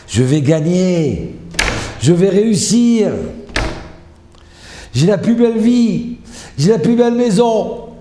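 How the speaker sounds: high, loud, building proclamation; rousing self-motivating cries, stretched and soaring; triumphant affirmations. Shown as a demonstration. Demonstrating triumphant positive affirmations.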